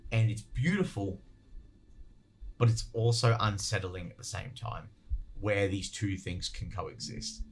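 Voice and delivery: speaking through a cough; coughing fit. Real, not acted. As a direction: voice strained between coughs. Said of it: "I apologize I'm coughing so much".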